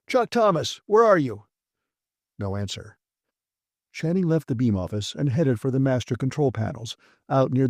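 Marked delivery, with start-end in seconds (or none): 0.1-1.4 high, loud shout for Chuck; calling out. Acted. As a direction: call out searching the rooms.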